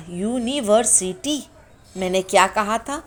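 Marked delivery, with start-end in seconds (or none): 0.1-1.4 यूनिवर्सिटी said slowly, with a clear यू at the start; teaching pronunciation. Shown as a demonstration. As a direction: stretch यूनिवर्सिटी, landing on the yoo. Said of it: "इसके sound में यू आया". (धीरे से यूनिवर्सिटी)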